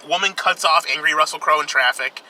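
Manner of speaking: ordinary delivery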